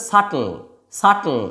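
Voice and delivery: সাটল with no b before the t; silent B. Shown as a demonstration. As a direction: leave the b out of সাটল. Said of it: "এই যে বিটি".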